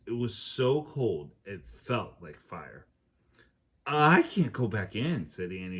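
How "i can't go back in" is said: shivering. Acted.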